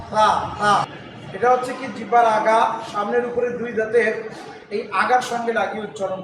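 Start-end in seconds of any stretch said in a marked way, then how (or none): 0.1-0.7 তা with tongue tip on upper front teeth; soft th. Shown as a demonstration. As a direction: say তা softly as th, no whistle. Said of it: "এই তাটা নরম করে". (তা নরম করে, দাঁতে জিহ্বার আগা লাগিয়ে)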